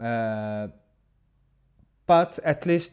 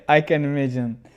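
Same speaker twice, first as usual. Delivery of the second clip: laughing through the words; amused, laughing reply; 6 dB louder than usual. Real, not acted. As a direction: chuckle it out as you say it. Laughing at viewer's comment.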